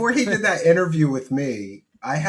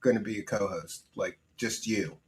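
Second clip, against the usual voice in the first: softer, lower, careful retelling; polite letdown; 4 semitones lower, 8 dB quieter than usual. Retold or imitated. Host telling a guest her dad can't co-host, politely. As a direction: let them down gently, voice dropped. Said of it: "I had to politely say".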